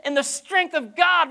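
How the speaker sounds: high, loud hype-man voice; hyped-up question. Pretend. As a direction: pump the crowd up, mock rally. Preacher mimics excited hype question.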